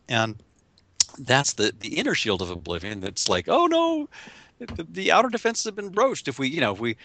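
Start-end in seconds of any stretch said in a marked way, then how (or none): 3.5-6.3 high, panicked voice of the ego; alarmed ego. Acted.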